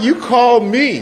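slow, high, loud, laughing through it; laughing disbelief. Retold or imitated. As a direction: laugh at the absurdity of the question. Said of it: "I'm like".

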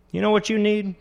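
sudden loud change of subject; suddenly loud. A narrator's reading. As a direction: cover the awkwardness with volume. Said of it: "Carl's voice was suddenly loud".

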